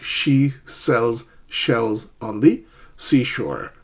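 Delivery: slow, careful tongue-twister recital. Shown as a demonstration. Teacher showing students a practice tongue twister, slow and careful. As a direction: recite it slowly, one word at a time. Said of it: "Practice some tongue twisters".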